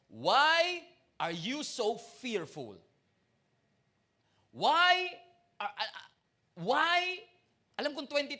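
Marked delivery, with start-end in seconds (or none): 0.1-2.8 very slow, drawn-out question; a slow, searching rebuke from Jesus; Jesus rebuking. Acted. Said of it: "and he said". 4.5-7.2 higher and louder single word; a sudden loud why; emphatic why. Acted. Preacher echoing Jesus' question.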